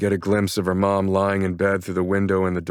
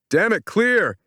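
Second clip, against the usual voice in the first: loud, urgent, frustrated yell; frustrated shout; 4 dB louder, slower than usual. A narrator's reading. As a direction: curse and shout the command. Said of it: "he shouts".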